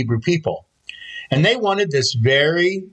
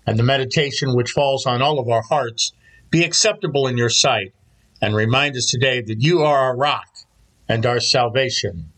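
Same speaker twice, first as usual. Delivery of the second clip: measured prayer, pitch settling at phrase ends; spoken prayer; 3 semitones lower than usual. Real, not acted. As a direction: pray aloud for the congregation in unhurried phrases. Leads the opening prayer.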